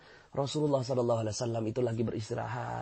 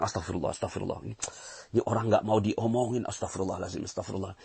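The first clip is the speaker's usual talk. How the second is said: 1 grumbling blame; 4 semitones lower than usual. Retold or imitated. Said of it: "sambil nyalahin orang".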